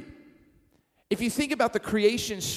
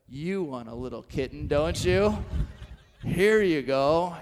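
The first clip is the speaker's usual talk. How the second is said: coaxing; 5 semitones lower than usual. Retold or imitated. Pastor pushing kittens on church kids, coaxing. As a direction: sweet-talk them into taking it.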